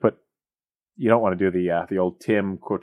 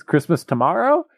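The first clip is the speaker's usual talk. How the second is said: mock Scrooge; 8 semitones higher than usual. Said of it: "He goes".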